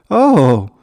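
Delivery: loud, high "oh" of alarm; startled cry. A narrator's reading. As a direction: cry out as the ride takes off. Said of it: "cried out Stan".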